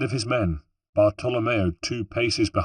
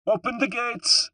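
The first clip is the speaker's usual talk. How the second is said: mild shout. A narrator's reading. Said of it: "shouted the sergeant".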